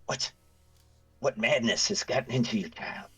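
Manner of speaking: high, appalled priest voice; horrified. Acted. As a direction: recoil in horror at blasphemy.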